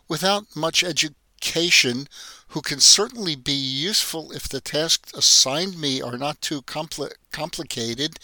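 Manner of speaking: feigned naivety, faltering over compli-, complicated; naive simple girl act. Acted. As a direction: put on a wide-eyed innocent voice, stumbling on the long word. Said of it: "pretending to have trouble with the longer words".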